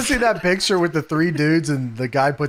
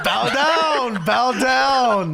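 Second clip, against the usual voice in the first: higher, chanted imitation of a catchphrase; mock wrestler command; 4 semitones higher, much slower than usual. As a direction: call it out like a wrestling villain. Imitating Hogan's repeated command.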